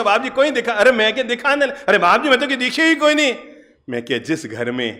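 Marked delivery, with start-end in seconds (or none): 0.0-3.3 put-on higher, quicker voice of a young lad; boy's high voice. Boy telling the monk he sees nothing, higher voice. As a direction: play the cheeky boy.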